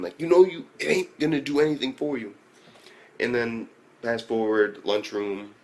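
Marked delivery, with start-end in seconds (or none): 0.2-2.3 raised, higher-pitched imitation of screaming; mock scream. Retelling how he starts screaming at her, mock scream. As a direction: imitate a character yelling in protest. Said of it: "then he starts screaming".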